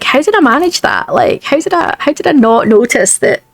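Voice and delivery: baffled at your own editing; amused disbelief. Retold or imitated. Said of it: "you're just like".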